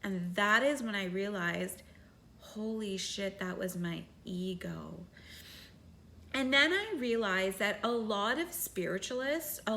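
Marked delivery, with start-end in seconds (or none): 2.4-5.0 whispered realization, much softer; real hushed whisper of discovery; awed whisper. Real, not acted. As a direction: breathe it out as the truth lands.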